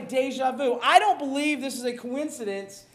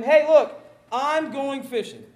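voicing Peter; 7 dB louder, slower than usual. Peter voiced in Bible reading.

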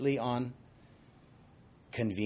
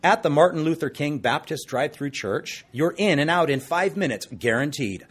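salesy ad read; infomercial voice; 4 dB louder than usual. Acted. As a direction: pitch it like a TV ad. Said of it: "I sound like an infomercial".

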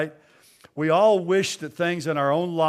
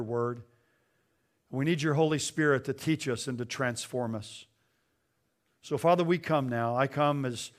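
pastoral prayer. Acted. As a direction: pray reverently for the church. Leads congregation in prayer.

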